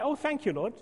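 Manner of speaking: hammed-up fake gratitude; sarcastic thanks. Sarcastic thanks after car crash.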